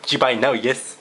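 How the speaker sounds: playful catchphrase in a lightly put-on accent; imitation ending in a laugh; Angry Joe impression. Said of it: "Do the Angry Joe thing".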